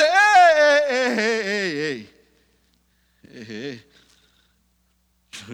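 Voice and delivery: Peter protesting. Acted. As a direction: plead your way out of it. (Pedro protesta, fuerte y alto al principio, luego baja)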